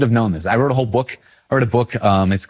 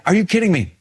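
pitched-up incredulous scoff; mock disbelief; 9 semitones higher, faster than usual. Priest recalling his reaction to a song, mock incredulous. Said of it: "'Cause I was like".

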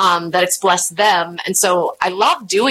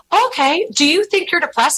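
gentle friend; 9 semitones higher than usual. Retold or imitated. Friend voiced in story.

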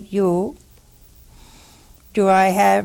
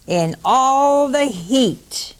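mock complaint; 4 semitones higher, much slower than usual. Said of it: "here it comes".

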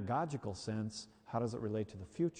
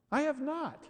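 high, squeaky outraged protest; indignant denial; 12 semitones higher than usual. Retold or imitated. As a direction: shoot back in mock offence, way up high. Husband denies, high indignant yelp.

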